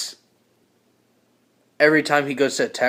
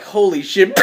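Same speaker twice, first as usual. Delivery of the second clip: louder startled exclamation; acted shock; 3 semitones higher, 5 dB louder than usual. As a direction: cry out at a sudden sight. Character's cry before the attack.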